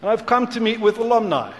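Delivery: a hint of a British accent. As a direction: lightly put on your best British accent. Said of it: "in my best British accent".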